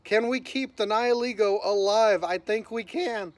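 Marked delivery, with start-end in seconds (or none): 2.2-3.3 cracking early morning voice. Real, not acted. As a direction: let the voice crack. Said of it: "my voice cracked right there".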